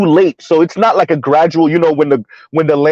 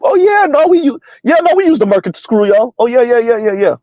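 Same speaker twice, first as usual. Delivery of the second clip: much higher, breezy mock rich boss; mock smug CEO; 5 semitones higher than usual. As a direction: toss it off like a gloating tycoon. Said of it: "they're gonna tell you straight up".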